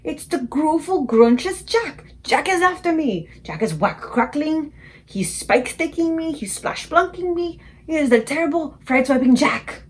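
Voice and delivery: high, loud, slow panicked wailing; terrified bellowing. A narrator's reading. Giant wailing about Jack, high slow panic. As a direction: wail each horror out slowly. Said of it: "bellowed the flesh lump eater".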